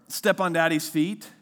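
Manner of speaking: put-on slow, loud, drawn-out children's book line; slow storybook read. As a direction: spell it out slowly for kids. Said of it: "the book goes like something like this".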